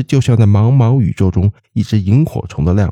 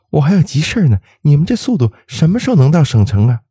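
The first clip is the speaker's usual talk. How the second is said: irritated; 8 semitones higher, faster than usual. A narrator's reading. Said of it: "那姑娘火了".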